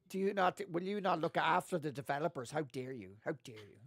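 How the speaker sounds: loud mock indignation, easing off as it goes; mock outrage. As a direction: play at being scandalized on the developers' behalf. Mock outrage at peasant edition joke.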